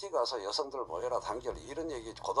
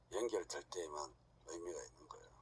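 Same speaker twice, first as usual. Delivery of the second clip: whisper; 8 semitones lower, 15 dB quieter than usual. Real, not acted. Lecturer drops voice for point.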